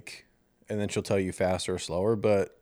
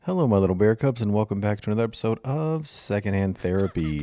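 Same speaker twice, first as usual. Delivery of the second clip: airline captain over the intercom; pilot voice. Shown as a demonstration. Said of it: "Can you do it in a pilot voice".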